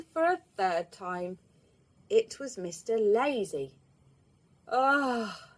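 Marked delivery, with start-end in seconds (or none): 4.7-5.5 yawn. A narrator's reading. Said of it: "he yawned".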